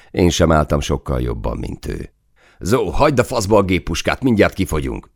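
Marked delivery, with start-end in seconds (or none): 2.6-5.1 raised pitch, contained narrator's yell; urgent yell. A narrator's reading. Soldier to the gunner in the turret, urgent yell. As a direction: call up urgently, voice pitched higher. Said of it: "üvöltöttem fel a toronyba".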